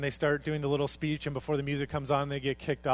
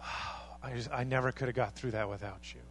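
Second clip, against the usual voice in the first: grateful; 3 semitones lower, 5 dB quieter than usual. Retold or imitated. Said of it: "you look back and you say".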